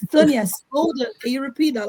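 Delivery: imitated interviewer. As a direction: lightly imitate someone cutting in to check. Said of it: "sometimes they were like".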